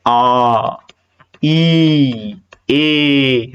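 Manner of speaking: आ, ई, ए each held long and slow; demonstrating long vowels, drawn out; long vowel demo. Shown as a demonstration. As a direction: stretch आ out slowly, then ई and ए. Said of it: "वो दीर्घ स्वर होते हैं".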